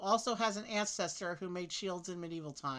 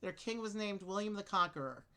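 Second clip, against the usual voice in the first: reading aloud; 2 semitones higher than usual. Acted. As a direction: clear read-aloud voice. Reads clue text aloud.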